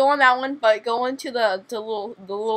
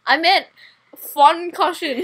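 laughing cover-up; 5 semitones higher, 7 dB louder, slower than usual. Real, not acted.

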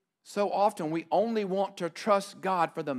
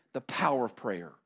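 "The power of prayer" said low and softer; soft answer; 6 semitones lower, 5 dB quieter than usual. Shown as a demonstration. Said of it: "What was the lesson".

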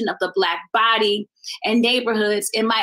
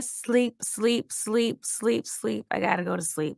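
hushed pleading; 4 semitones lower, 6 dB quieter than usual. Acted. Insomniac thoughts voiceover.

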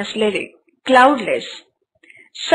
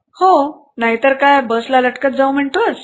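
irritated. Acted. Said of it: "काका चिडून म्हणाले".

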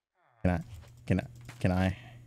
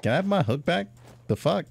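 exasperated plea; 8 semitones higher, faster than usual. Real, not acted. Asks thief for hook.

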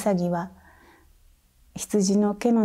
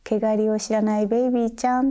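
mild teasing; 3 semitones higher, faster than usual. Retold or imitated. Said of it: "からかう".

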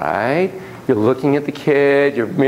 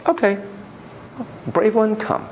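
inner brave voice; 9 semitones higher, 3 dB quieter than usual. Retold or imitated. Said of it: "and you're like".

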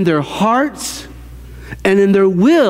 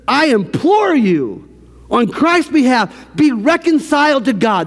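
urgent plea; 5 semitones higher than usual. Retold or imitated. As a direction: quote it as an earnest appeal. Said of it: "do you feel the urgency".

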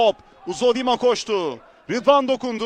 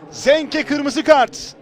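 drawn-out slow red card call; slow emphatic call; much slower than usual. Real, not acted. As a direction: stretch each word out.

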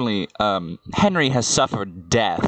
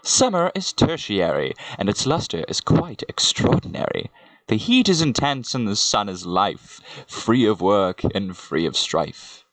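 measured poetry reading; self-styled poet reading aloud; poem recitation. Acted. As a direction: recite it as rhyming verse, line by line. Recites summer verse.

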